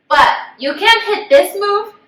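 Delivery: laughing through the words, high. Real, not acted. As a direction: giggle while talking. Laughing while explaining fake tears.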